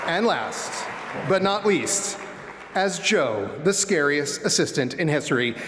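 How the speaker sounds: pro wrestler announcer voice. Pretend. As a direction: save the biggest hype for last. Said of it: "pro wrestler announcer voice".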